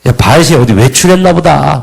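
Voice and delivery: lightly mocking jab at the idol; mild imitated sarcasm; mocking sneer. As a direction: tease them that their god sleeps. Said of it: "막 비아냥거리잖아요".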